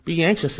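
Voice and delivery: "anxious" set off firmly before a pause; emphatic. Shown as a demonstration. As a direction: state "Be anxious" firmly, then stop. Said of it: "it's emphatic".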